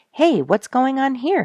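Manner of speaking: loud, high call of surprise. Acted. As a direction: shout it across the shore to his friend. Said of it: "he called".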